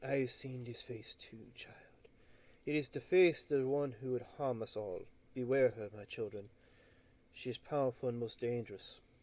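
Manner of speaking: hushed whisper. Game narrator voicing a woman answering a player's whispered words, whispering. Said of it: "she whispers back".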